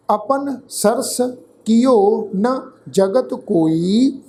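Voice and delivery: slow, measured scripture reading; slow recitation. Shown as a demonstration. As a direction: chant each word slowly for the learners. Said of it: "ਖਿਆਲ ਰੱਖ ਕੇ ਪਾਠ ਉਚਾਰਨ ਸੁਣੋ ਜੀ".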